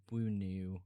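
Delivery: slow, careful "Bunu"; "Bunu" drawn out tentatively; sounding out a name. Shown as a demonstration. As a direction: say "Bunu" slowly, testing the pronunciation. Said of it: "It's pronounced".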